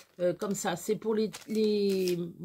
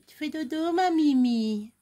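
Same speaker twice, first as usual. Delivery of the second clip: cooing; 3 semitones higher, 5 dB louder than usual. Real, not acted. Cooing to sleeping pet.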